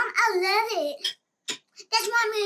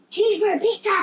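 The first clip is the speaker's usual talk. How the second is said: excited gasp; 3 semitones higher, much faster than usual. Real, not acted. Child gasps at the dish.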